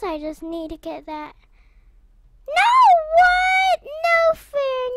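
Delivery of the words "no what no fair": high, loud whine of unfairness; high-pitched outraged complaint; indignant protest. Real, not acted. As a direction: cry foul in loud disbelief. Protests losing in the game.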